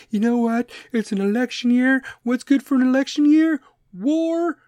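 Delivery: high, loud know-it-all conspiracy voice; mock the paranoid theorist. Podcaster mocking conspiracy theory freaks, hammed-up know-it-all. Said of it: "conspiracy theory freaks".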